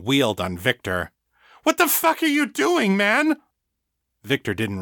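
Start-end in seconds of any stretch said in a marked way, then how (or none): 1.6-3.4 high furious demand. A narrator's reading. Egan wheeling on Victor after the killing, high furious demand. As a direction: round on him in fury.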